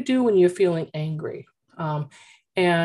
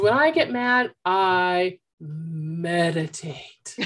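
put-on calm child; much slower than usual. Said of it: "and she said".

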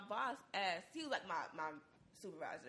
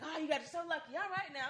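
mock white lady; 8 semitones higher, 4 dB louder than usual. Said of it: "But she was like".

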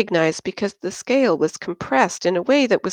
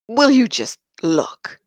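put-on higher, louder drunken demand; 5 semitones higher, 4 dB louder than usual. Drunk pilot insists the group look, demanding. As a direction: make them look, a bit slurred and pushy.

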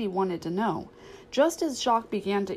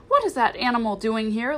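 lightly voiced indignant aunt, a little louder; disapproving aunt; 3 semitones higher, 4 dB louder than usual. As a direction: demand it with mild acted outrage. Aunt Sarah objects to the dog.

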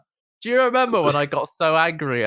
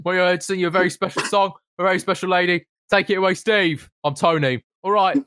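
mock stage intro. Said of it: "the first one was".

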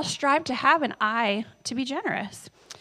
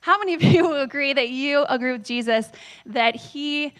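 laughing through it. Real, not acted. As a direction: question broken by a real laugh. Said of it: "Oh, no, I just turned off my tablet".

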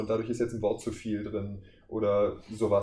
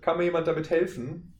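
demo line; 7 semitones higher than usual. Shown as a demonstration. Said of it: "also statt".

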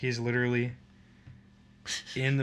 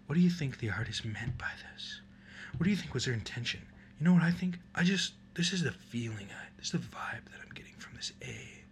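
pretentious art critic; 4 semitones higher than usual. Acted. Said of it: "people would, like, study it for hours".

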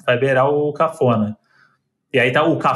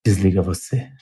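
deep put-on big voice; vozeirão; 6 semitones lower than usual. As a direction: drop into a booming deep voice. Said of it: "Ai, que vozeirão". (voz grossa de galã ao telefone)

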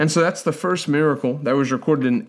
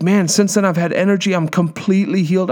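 higher, mildly elated retelling; imitated excited testimony; 4 semitones higher than usual. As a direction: voice a healed man's eager news. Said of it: "He's like".

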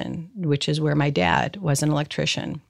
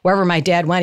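usual speaking voice

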